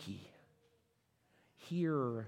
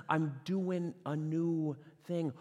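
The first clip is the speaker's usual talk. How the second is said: I'm doing a new thing stretched slow at full voice; slow voice of God; 2 semitones higher, much slower than usual. Acted. Pastor repeating God's words, slow and firm. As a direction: proclaim it slowly. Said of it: "the next donkey that says".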